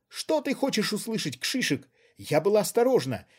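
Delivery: high, loud, agitated defence; heated outburst. A narrator's reading. Woman yelling her grievances at her accomplice. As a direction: pour out her grievance, still near hysteria.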